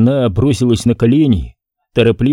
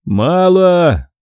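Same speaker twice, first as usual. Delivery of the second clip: higher, curt refusal; curt scribe; 6 semitones higher than usual. A narrator's reading. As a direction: snap it short and dismissive. Scribe rejects the coins.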